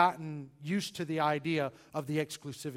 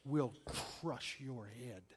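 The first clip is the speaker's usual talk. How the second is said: softer, dropped low and slow; hushed and slow; 5 semitones lower, 10 dB quieter, much slower than usual. Acted. Preacher reading the prophecy to the congregation, hushed and slow. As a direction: let the promise land hushed. Quoting Genesis prophecy climax.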